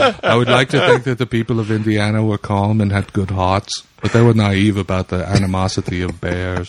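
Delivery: put-on a mellow German-accented narrator voice; Werner Herzog accent. Cohost keeps up Herzog's gloomy bear tale in a German accent. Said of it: "sound like a mellow version of Arnold Schwarzenegger".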